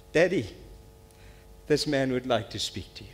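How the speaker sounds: emotional. Real, not acted. Boy brings soldier to his father, emotional. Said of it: "I get emotional about this".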